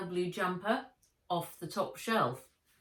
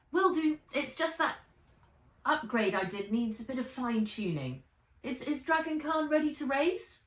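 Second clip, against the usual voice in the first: put-on much higher bright girl's voice; eager girl; 8 semitones higher, 4 dB louder than usual. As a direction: answer quickly, keen to know.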